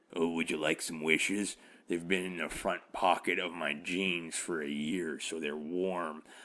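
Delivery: low, unsettling, creepy voice. Joking about the phrase warm wishes: creepy warm wishes voice. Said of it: "the warm wishes voice".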